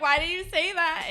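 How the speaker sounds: indignant question. Retold or imitated. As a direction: act defensive and surprised.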